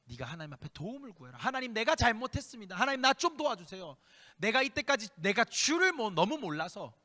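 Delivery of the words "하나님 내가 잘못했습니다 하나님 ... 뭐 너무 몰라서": pleading prayer. Acted. Voiced prayer of repentance.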